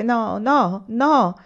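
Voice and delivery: half whine, half rage; plaintive and angry. A narrator's reading. Anania refusing Olì, plaintive yet angry. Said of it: "con voce nello stesso tempo lamentosa e rabbiosa".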